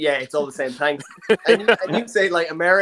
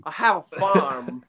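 Christopher Walken; slower than usual. Retold or imitated. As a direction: try a bad Irish accent, slowly. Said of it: "does he do an Irish accent".

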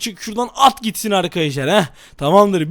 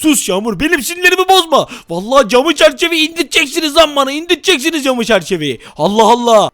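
angry act. Acted. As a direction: threaten the wife over pizza. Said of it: "sinirli taklidine geçelim". (eşine sahte öfke)

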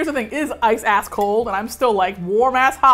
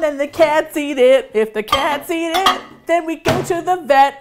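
rising louder and higher with each step; building excitement; 5 semitones higher, 6 dB louder than usual. Acted. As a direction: build it up link by link. Escalating chain of consequences.

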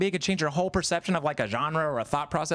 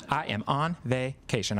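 slow, separated words of a tipsy mom; hammered mom; slower than usual. Retold or imitated. Drunk mom telling son Joshua her catchphrase, slow tipsy insistence. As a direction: spell it out slowly like a drunk parent. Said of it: "she was getting hammered".

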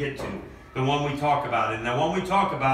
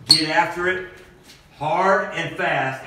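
forceful shout; 4 semitones higher, 4 dB louder, much slower than usual. Acted. Coach fires up team.

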